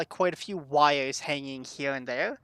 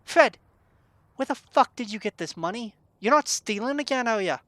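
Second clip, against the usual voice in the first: suspicious scolding; 4 semitones higher than usual. Acted. Barkeep accuses Fred of stealing.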